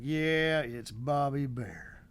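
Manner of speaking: slow, flat "big whoop" shrug; unimpressed wife. Retold or imitated. Wife shrugging off her husband's starstruck moment, unimpressed. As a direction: drag it out like it's no big deal. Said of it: "Like, big whoop".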